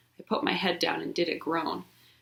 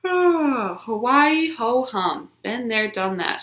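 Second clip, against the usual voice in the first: higher, drawn-out yawn of a voice; bored; 5 semitones higher, 4 dB louder, much slower than usual. Acted. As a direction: act totally unimpressed. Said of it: "she said, real bored".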